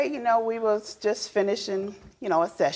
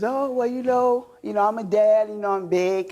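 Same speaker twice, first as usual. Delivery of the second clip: imitating husband; 4 dB louder than usual. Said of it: "he says".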